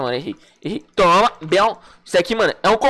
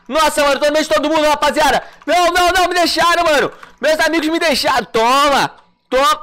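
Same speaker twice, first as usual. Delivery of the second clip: fast, louder, higher panic; frantic gamer abandoned by his team; panicking gamer; 5 semitones higher, 3 dB louder than usual. Real, not acted. Surrounded, friends left him.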